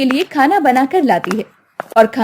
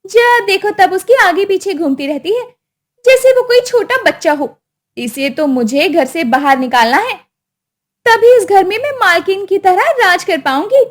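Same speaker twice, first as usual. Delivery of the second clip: a lightly raised, sly voice; scheming wife; 6 semitones higher than usual. Acted. Wife scheming against her mother-in-law, sly. Scheming wife's inner monologue.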